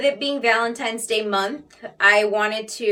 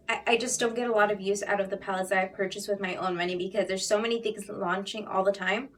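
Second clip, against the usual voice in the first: out of breath; 5 dB quieter than usual. Real, not acted. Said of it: "Oh my god, I'm out of breath".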